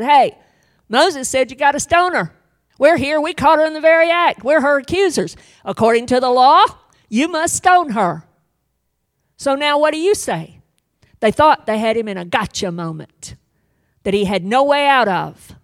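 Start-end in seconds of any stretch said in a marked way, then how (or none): 0.0-10.6 loud, fast, demanding accusers; accusing crowd. Acted. Accusers confronting Jesus, loud and demanding. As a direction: demand an answer, challenging.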